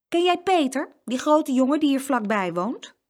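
high, loud opening; spring the question on him; abrupt high-pitched challenge; sudden question. A narrator's reading. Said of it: "vroeg hij ineens".

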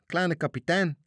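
loud, high shout. Acted. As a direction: yell in surprise to the captain. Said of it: "schreeuwden de matrozen". (matrozen schreeuwen verrast)

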